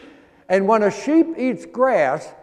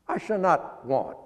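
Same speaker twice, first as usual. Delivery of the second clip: ordinary delivery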